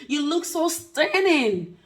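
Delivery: slow, high, drawn-out compliment called across the street; admiring catcall. Retold or imitated. Man on the street calling a compliment to the narrator, drawn out and high. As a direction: call it out like a smitten man across the road.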